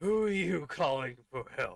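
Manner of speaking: menacing, threatening villain voice. Voicing the torturer hearing a cry for help: menacing villain voice. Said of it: "and you can hear".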